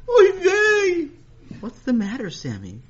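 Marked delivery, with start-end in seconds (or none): 0.1-1.1 put-on yiddish accent. Sammy dismayed at lesson topic.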